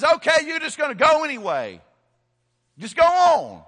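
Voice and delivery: high, shouted fed-up outburst; exasperated giving-in. Acted. God giving in to Balaam's nagging, exasperated shout. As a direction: throw up the voice in acted exasperation.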